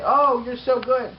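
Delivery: high, slow mock-adoring voice; an admirer gushing over his tricks. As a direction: swoon over the rider.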